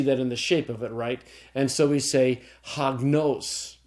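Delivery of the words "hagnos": hagnos slowly, stress on final NOS; stress on accented syllable. Shown as a demonstration. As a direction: say "hagnos" as hag-NOS, deliberately. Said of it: "And then there's the circumflex".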